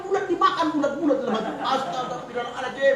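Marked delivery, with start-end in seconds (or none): 1.6-2.9 mock pious exclamation. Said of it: "aku bilang".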